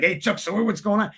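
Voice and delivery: lightly put-on New York tough guy; a hint of a mobster-movie greeting; De Niro. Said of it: "That's more De Niro".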